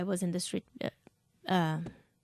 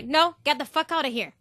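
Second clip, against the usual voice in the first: laughing retort; 3 semitones higher than usual. Shown as a demonstration. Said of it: "I would say, like this".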